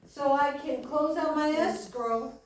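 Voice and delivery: drawn-out, emphatic preacher delivery; preaching. Acted. Preacher urging congregation not to wait too late, emphatic preaching. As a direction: preach it slowly, landing each phrase.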